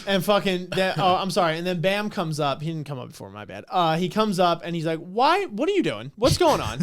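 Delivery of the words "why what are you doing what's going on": high-pitched startled questioning; mock bewilderment. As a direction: ask in rising disbelief. Mimics Bam arriving bewildered.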